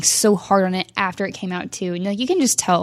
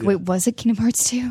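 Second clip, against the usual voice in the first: ordinary talk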